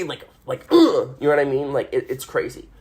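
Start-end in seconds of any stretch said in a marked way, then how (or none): 0.7-1.1 higher, forceful mock-angry grunt; short acted "ugh" of anger. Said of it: "like, angry".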